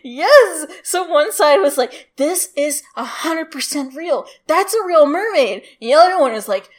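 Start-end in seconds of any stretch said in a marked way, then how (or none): 2.2-5.6 higher, emphatic arguing voice; mock insistence. Newspaper defending the mermaid, mock insistence. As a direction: insist on it, lightly hammed up. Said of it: "two newspapers who were fighting each other".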